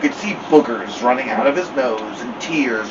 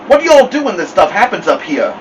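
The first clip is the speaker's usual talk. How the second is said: higher-pitched, fretful Southern voice; worried Southern accent; 6 semitones higher, 4 dB louder than usual. A narrator's reading. Worried Mama questions Dad, Southern accent. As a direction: let the Southern accent slip out with worry. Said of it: "Mama started talking Southern".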